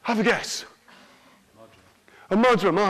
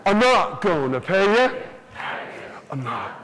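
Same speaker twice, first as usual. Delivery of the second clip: stingy farmer. Acted. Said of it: "Farmer to Jackie did say".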